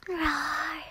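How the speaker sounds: a sleepy cub's little roar; playful mock roar. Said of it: "roar into your ears".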